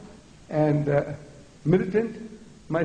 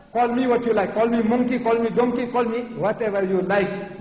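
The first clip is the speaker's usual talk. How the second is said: defiant; 4 semitones higher than usual. Acted. Acting offended challenge.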